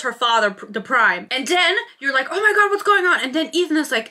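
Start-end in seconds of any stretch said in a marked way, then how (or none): 2.3-3.2 high, loud disbelieving shout; shocked gasp. Retold or imitated. Reader reacting as Sabine kills the Prime, high shocked cry. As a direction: blurt it out in total shock.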